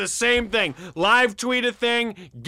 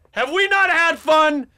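indignant protest; 3 semitones higher, 5 dB louder than usual. Acted. Defending the show loudly.

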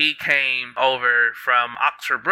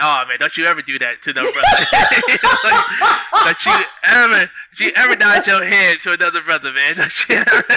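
mock scolding through laughter; 5 semitones higher, 5 dB louder than usual.

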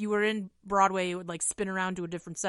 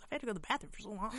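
laughing; 9 dB quieter, much faster than usual. Retold or imitated. Mom complaining, retold.

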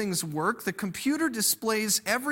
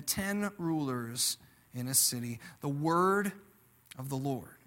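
scripture reading; 3 semitones lower than usual. Acted. Preacher reading scripture to the congregation, solemn and measured. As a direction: read the verses with solemn weight. Reads scripture before sermon.

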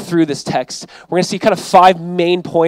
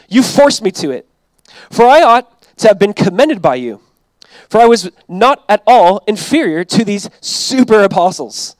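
sarcastic reading. Retold or imitated. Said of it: "Paul does this in a very sarcastic way".

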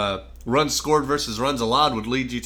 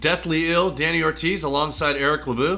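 congested; 4 semitones higher than usual. Real, not acted. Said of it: "You sound like shit".

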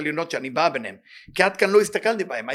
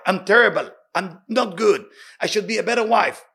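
mock self-pity; 4 semitones higher, 6 dB louder than usual. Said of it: "If you say".

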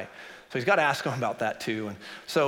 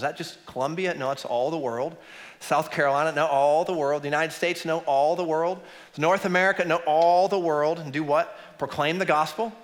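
building emphasis; 3 semitones higher, 3 dB louder than usual. Real, not acted. Building call and response.

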